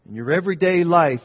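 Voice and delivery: loud, high burst; emphatic preaching. Acted. Preacher stressing everyday life to the congregation, loud and high. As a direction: hit it hard for the congregation.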